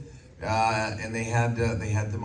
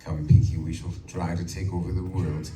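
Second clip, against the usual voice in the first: lightly deepened Orson Welles scheming voice; a hint of a low, grand villain; the Brain, very deep; 4 semitones lower than usual. Shown as a demonstration. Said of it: "I did it very deep".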